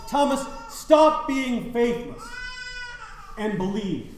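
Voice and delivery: slow, high, commanding rebuke; voice of Jesus. Acted. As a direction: speak as Jesus rebuking Thomas. Jesus's words quoted in sermon.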